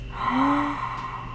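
long gasp of admiration; delighted gasp. Real, not acted. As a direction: draw in breath, thrilled by the look. Admiring finished eyeshadow.

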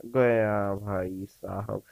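long loud cry of doom; drawn-out wail. Real, not acted. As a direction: stretch it out like you're done for. Caught by sweeper.

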